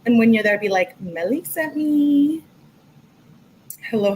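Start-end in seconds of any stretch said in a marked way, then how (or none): 1.0-2.4 higher, drawn-out sing-song; slow sing-song shout-out, held at the end; sing-song announcement. Pretend. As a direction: stretch it out in a high, playful chant. Models greeting for viewers to post.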